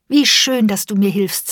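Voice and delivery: spring the trap happily; mock-sweet triumph; delighted.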